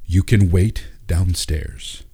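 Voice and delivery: flat, slow, cold delivery; deadpan, unmoved reply; emotionless. Acted. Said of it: "with no emotion on his face".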